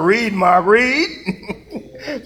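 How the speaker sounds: calling "read" through real laughter; laughing call to read. Real, not acted. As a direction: urge the reader on while laughing. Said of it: "I'm talking to myself this morning".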